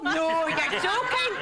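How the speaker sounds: slow, high, gasping disbelief; drawn-out shocked gossip reply; mock astonishment.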